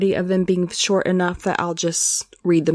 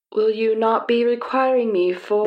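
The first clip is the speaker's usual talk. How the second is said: put-on Southeast Asian accent; 4 semitones higher than usual. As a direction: introduce himself in a mild Southeast Asian accent. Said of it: "my attempt at a generic Southeast Asian accent".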